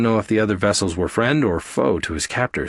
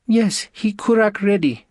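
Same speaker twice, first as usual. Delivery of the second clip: high, strange alien woman; female alien voice; 12 semitones higher than usual. Acted. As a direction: answer briskly in a high alien voice.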